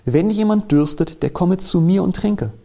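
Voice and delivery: Jesu Ruf, höher und lauter, langsam; ausrufend. A narrator's reading. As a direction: rufe es über die Menge hinweg. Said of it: "rief und sprach". (Jesus ruft am Festtag, lauter und höher)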